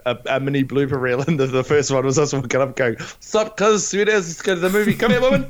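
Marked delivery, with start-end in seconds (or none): 3.2-5.5 high, fast, hammed-up Kiwi bloke; hoary New Zealander. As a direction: play a rough Kiwi lad chasing a movie date. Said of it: "trying to sound hoary".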